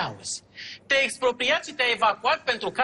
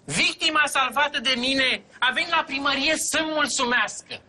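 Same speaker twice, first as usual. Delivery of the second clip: speechifying; 5 semitones higher than usual. Pretend. Second take of staged speech.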